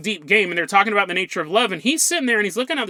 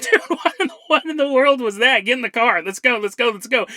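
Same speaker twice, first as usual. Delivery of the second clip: mock-appalled friends urging a quick getaway; alarmed friends; 3 semitones higher than usual. Retold friends alarmed, hurrying off.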